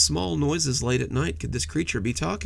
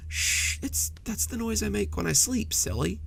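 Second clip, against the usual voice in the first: with a laugh; 8 semitones higher than usual. A narrator's reading. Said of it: "Jeremy said with a laugh".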